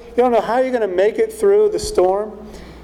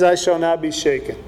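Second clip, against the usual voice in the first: confident; 2 semitones lower than usual. Retold or imitated. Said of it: "the doubt goes away".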